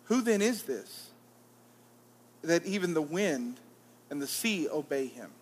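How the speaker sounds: measured, solemn Bible reading; scripture reading. Acted. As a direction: read the gospel aloud to the congregation, unhurried. Reading the gospel aloud.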